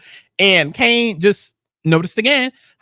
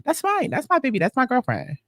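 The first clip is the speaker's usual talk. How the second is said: possessive murmur; 4 semitones higher, 7 dB quieter than usual. Real, not acted. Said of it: "everybody got a crush on Effie, but that's mine".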